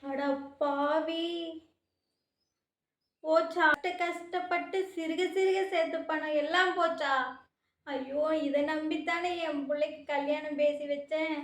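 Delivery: high grieving cry, slow at first; wailing lament. Acted. Mother wailing in shock over the stolen savings. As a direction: wail as if everything is lost.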